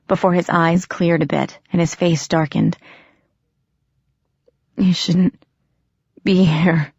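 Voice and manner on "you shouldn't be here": a breathless, voiceless warning whisper; gasped whisper. Acted. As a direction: force it out on a gasp, weak and urgent. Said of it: "he gasped".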